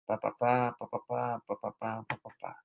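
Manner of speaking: droning pá pá fading. Shown as a demonstration. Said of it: "Vira aquele mantra".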